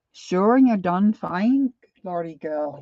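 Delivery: slow, hammed-up Irish lilt; mock Irish accent. Imitating Irish folks in a slow mock Irish accent. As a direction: play a stereotypical Irish local, slowly. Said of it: "a lot of Irish folks are".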